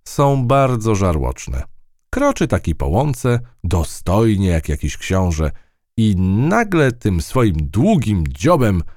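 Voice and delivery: plucky field mouse telling her tale. Acted. Mouse describes the stork.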